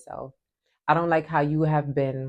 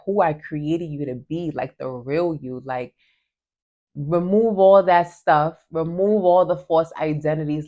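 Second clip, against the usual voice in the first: voicing God. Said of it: "And God is like".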